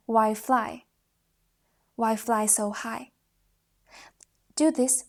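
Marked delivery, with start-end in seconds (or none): 0.1-3.1 rising question. Shown as a demonstration. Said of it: "Then add".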